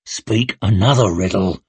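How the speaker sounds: threatening growl; snarled threat. Acted. Shivers warning the witch off riddles, snarled. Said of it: "snarled Shivers".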